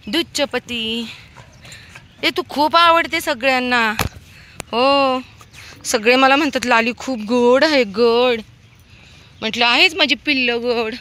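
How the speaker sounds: high, loud cooing to a puppy; sing-song pet voice, high and loud; pet talk. Real, not acted. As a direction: coo over the little dog. Cooing to the dog Lali.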